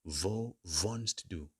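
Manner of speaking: Wo wohnst du said slowly, word by word; slow repeat for learners; slow model phrase. Shown as a demonstration. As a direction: drill it slowly for the class. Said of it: "Where do you live?".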